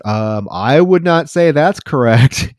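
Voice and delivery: slow, measured mock refusal; retold awkward refusal. Man refusing a crude proposition in a retold scene, slow and deliberate. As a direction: spell out the refusal slowly, playing the character.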